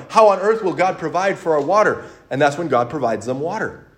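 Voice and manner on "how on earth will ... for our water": louder, mildly panicked complaint; half-hearted freak-out, raised voice; mock freaking out. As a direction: imitate a crowd fretting aloud. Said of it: "They start freaking out, going".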